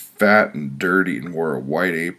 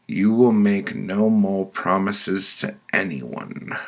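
stern pronouncement, pitched up; higher-voiced woman passing judgment; committee woman; 4 semitones higher, 3 dB louder than usual. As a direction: hand down the verdict as the judging woman. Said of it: "she said".

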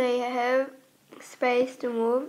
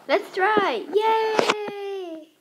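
excited; 7 semitones higher, much slower than usual. Acted. Cheerful jump to freezer.

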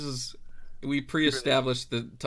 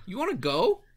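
much higher, cheeky challenge; taunting kid; 13 semitones higher, 5 dB louder than usual. Acted. The kid picking a fight with the cat player, high and cheeky. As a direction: sass the cat like a bratty kid.

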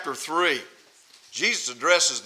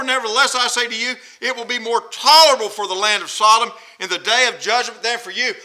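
firm, emphatic warning; stern pronouncement; angry scripture reading; 3 semitones higher, 4 dB louder than usual. Shown as a demonstration. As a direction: read the verse with some heat, punching key words. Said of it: "There's anger in the Lord's words".

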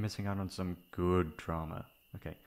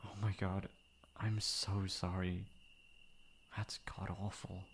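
gentle comfort; 2 semitones lower, 4 dB quieter than usual. Acted. Comforting hurt friend.

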